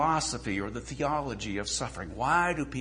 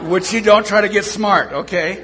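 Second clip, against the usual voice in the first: laughing; 7 semitones higher, 12 dB louder than usual. Real, not acted. Laughing at own traffic story.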